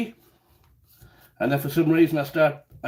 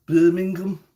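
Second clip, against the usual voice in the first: attempted Brummie place name; Birmingham accent; slower than usual. Shown as a demonstration. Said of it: "I remember the accent".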